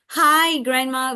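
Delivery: lightly acted hello; example greeting. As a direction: act out a child's clear greeting.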